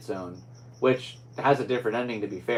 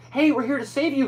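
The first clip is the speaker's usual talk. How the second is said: high, louder calling out; rescuers' call; 14 semitones higher, 6 dB louder than usual. Retold or imitated. Rescuers arriving at the asteroid, calling out higher. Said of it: "and they're like".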